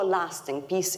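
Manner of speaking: lasting peace stressed, peace falling; emphasis on lasting peace. Shown as a demonstration. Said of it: "I'd like to emphasize the word lasting peace".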